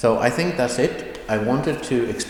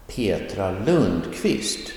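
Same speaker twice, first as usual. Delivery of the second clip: slow, with the stress on Lundqvist; stress on last name; slower than usual. Shown as a demonstration. Teacher showing how full names sound, stress on Lundqvist. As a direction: lean on Lundqvist, keeping Petra lighter. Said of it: "the last name will get the stress".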